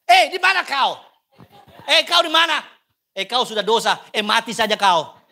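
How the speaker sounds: put-on loud, blunt Batak-accent calling. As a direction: bark it like a stern Batak elder. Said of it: "Karena orang Batak".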